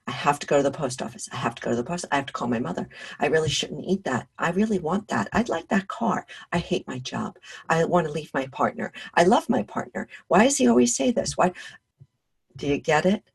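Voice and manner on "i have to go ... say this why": mildly rattled-off inner chatter; repetitive thoughts. Acted. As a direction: run through nagging thoughts one after another. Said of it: "We have repetitive thoughts".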